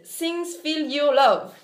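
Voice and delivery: "Things Feel Your Love" read very slowly, in a careful, shaky English; halting English title. Shown as a demonstration. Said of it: "tu es trop balèze en anglais!". (titre anglais lu très lentement, mot à mot, avec l'accent français)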